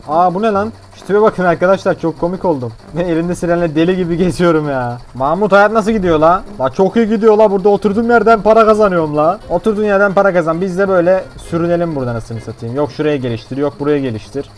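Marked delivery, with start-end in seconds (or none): 5.1-9.4 bragging character voice. Pretend. Voicing chatting characters.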